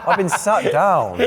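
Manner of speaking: laughing. Real, not acted. Laughing, covered in sauce.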